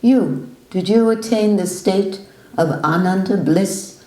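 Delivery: confronting newcomer. Retold or imitated. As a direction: corner the new visitor. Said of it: "he says to the new visitor".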